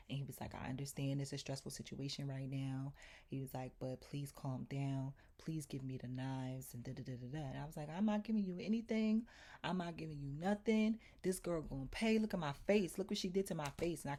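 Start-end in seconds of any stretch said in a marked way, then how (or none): 0.5-2.9 retold calming voice. Retells landlord calming her down. 3.8-7.5 quiet, measured appeal; retold calming voice. Imitating the landlord calming her down, soft and steady. 7.9-14.0 higher-pitched, mildly heated indignation; retold defiant refusal. Retelling her refusal to hand the landlord the knives, indignant.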